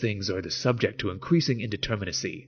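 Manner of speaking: solemn reading of a dense philosophy text; dramatic reading. Acted. Reads Baudrillard passage over music.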